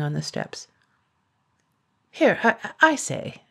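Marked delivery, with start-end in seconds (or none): 2.1-3.4 dragon calling out. A narrator's reading.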